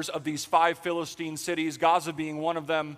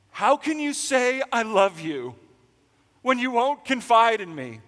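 half-sing it like a love song; lilting love-song line; 6 semitones higher, 5 dB louder than usual. Retold or imitated. Preacher reads Delilah's plea, lilting higher. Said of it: "you can hear it, right".

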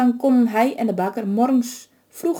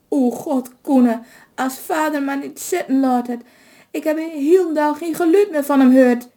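higher, worried complaining wail; lamenting; 6 semitones higher than usual. A narrator's reading. Wife lamenting to her son about her husband. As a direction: fret aloud for her husband. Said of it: "klaagde de vrouw".

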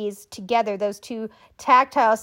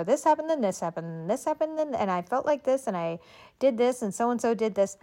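quiet, quick, monotone listing of events; flat recital; 4 dB quieter than usual. Shown as a demonstration. Demonstrating how a dull storyteller recites events, flat and hurried. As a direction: rattle it off with no life in it. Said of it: "And it's flat".

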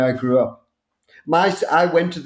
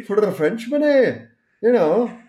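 mock Scottish lilt; 6 semitones higher than usual. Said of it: "mock Scottish echo".

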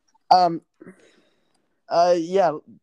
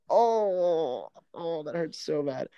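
pained groan; much slower than usual. Real, not acted. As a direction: let the loss sting. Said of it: "let me collect myself".

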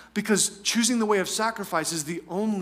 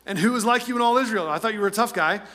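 quick mock challenge, pitched up at first; taunting; 2 semitones higher, faster than usual. David challenging the supposed tough guy, taunting. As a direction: needle him, a touch over the top. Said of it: "a little bit over the top and taunting".

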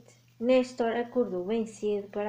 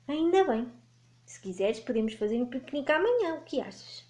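lightly voiced cheerful dragon; a touch of an eager dragon; friendly dragon voice; 4 semitones higher than usual. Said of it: "perguntou Vivi".

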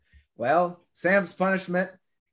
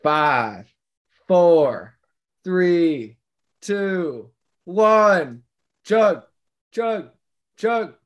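chanted countdown, getting louder; frat bro; 4 dB louder, much slower than usual. Real, not acted. Group countdown to chug a drink.

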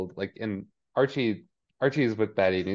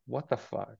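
muttered in disbelief, much softer; stunned under-breath; 8 dB quieter than usual. Retold or imitated. Betty reacting to the mayor's request, stunned and muttered. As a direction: let it slip out under the breath.

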